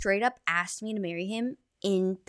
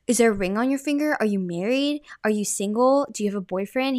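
imitating a man's rapid-fire questioning; brisk, pushy retold interrogation; rapid-fire questions; 4 dB louder than usual. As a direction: fire the questions off one after another, louder at first. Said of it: "rapid fire questions".

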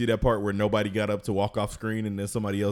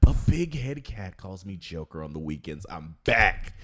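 hype intro. Acted. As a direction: hype up the crowd as you introduce yourself.

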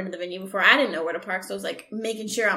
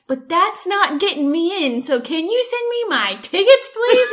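building higher to a begging please; plead, climbing up; rising plea; 5 semitones higher than usual. Retold or imitated. Retelling begging the clerk for tickets, rising plea. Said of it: "I was like".

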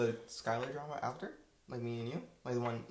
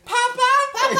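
shout; 15 dB louder than usual. Retold or imitated. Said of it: "We keep hearing".

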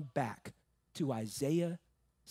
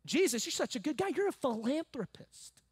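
high, lightly hammed-up compliment; mock admiration; 6 semitones higher than usual. Preacher voicing what we think of Jesus, mock gushing. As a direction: flatter him in a raised pitch. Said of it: "That's what we think".

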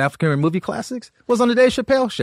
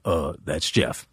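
low, fast, offhand mumble; lazy Paul voice; 14 semitones lower, 8 dB quieter, slower than usual. Retold or imitated. Paul invites the comic on tour, low and offhand. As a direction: toss it off like a casual offer. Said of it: "And Paul's like".

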